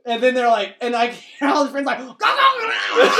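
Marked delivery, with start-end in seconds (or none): 2.0-3.1 higher, louder laughing chant of go; mock yelling. Imitating the neighbour's friends yelling go, laughing.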